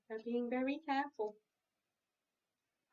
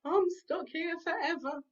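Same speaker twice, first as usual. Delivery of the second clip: mild wail; 4 semitones higher, 4 dB louder than usual. Acted. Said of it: "wailed Cowslip".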